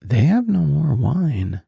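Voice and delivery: slow, gentle aside leaning over; humble and respectful. Shown as a demonstration. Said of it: "it's very humble and it's very respectful".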